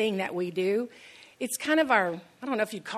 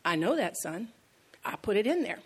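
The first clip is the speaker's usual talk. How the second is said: very calm. Retold or imitated. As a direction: answer with mock fatherly calm. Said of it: "his dad very calmly says".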